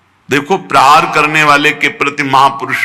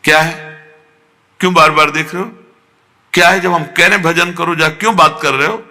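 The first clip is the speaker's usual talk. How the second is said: mock irritated brush-off; frowning annoyance; 3 semitones higher, faster than usual. Devotee shooing away someone who shows love, mock-annoyed. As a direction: scold lightly, with a pretend frown. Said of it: "भौं चढ़ जानी चाहिए".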